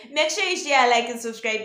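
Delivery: energetic repeat of the outro plea. Shown as a demonstration. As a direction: sell the ask harder the second time.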